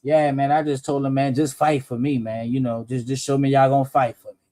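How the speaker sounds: low mumbled mock of a scared defendant; a hint of a meek defendant pleading. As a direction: lightly imitate him begging his lawyer, low. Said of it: "Why else would he be saying shit like".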